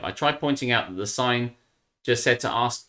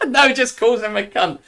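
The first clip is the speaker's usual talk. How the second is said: laughing; 12 semitones higher, 7 dB louder than usual. Real, not acted. Still laughing while correcting.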